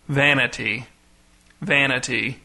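lightly intoned, spaced-out sonorous reading; deep, sonorous voice. A narrator's reading. Pastor reading scraps from pulpit, deep and sonorous. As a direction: intone each word solemnly with pauses. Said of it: "in a deep, sonorous voice".

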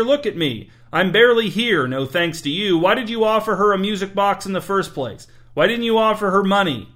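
high-pitched, heated scolding; exasperated berating. A narrator's reading. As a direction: berate the servant, pitch swooping up. Master berates servant in a quarrel.

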